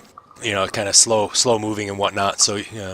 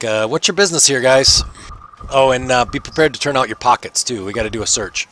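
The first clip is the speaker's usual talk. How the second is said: brisk guard demanding business; lightly voiced guard; 3 semitones higher than usual. Guard ordering the party to turn out pockets, mildly bossy.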